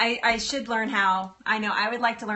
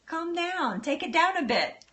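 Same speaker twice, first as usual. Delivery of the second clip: calm mild Ben; 7 semitones higher than usual. Retold or imitated. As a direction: gently rein her in, a hint of a calm friend. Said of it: "he's so calm and mild".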